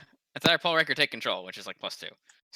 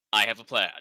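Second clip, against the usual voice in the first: lower-pitched scheming anime commander; Gendo; 4 semitones lower than usual. Acted. Player adjusts imaginary glasses to unveil a plan, low schemer voice. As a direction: announce the scheme in a low, measured voice. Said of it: "I do the Gendo, uh, glasses adjust".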